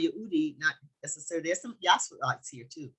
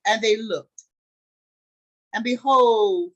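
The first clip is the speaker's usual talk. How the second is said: loud, deliberate scripture reading; 2 semitones higher, 5 dB louder than usual. A narrator's reading. Teacher reads the Joseph story to the group, deliberate scripture reading. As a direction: read it out slowly in weighty phrases.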